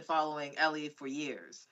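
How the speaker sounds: fighting back tears while speaking; holding back tears. Real, not acted. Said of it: "I'm trying not to cry".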